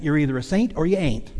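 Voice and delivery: imitated southern preacher accent; lightly put-on southern accent. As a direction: quote it like a southern radio preacher. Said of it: "put it this way in his southern accent".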